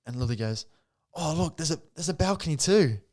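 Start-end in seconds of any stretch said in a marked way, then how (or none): 1.1-3.0 higher-pitched, lightly imitated delight; excited girlfriend. Girlfriend discovering the balcony at the new unit, excited. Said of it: "Lily's going nuts too".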